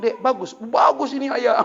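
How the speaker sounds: high, loud laughing praise. Retold or imitated. Father laughing while praising his son's game. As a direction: laugh through the words.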